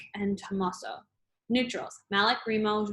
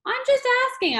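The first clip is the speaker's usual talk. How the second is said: laughing; 6 dB louder than usual. A narrator's reading. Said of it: "I laughed".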